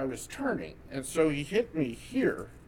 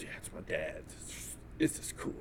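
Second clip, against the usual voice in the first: hushed, secretive whisper; 10 semitones lower, 11 dB quieter than usual. Retold or imitated. Boy whispering to his friend about his dad's gun, a hushed whisper. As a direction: whisper it like a kid showing off something forbidden.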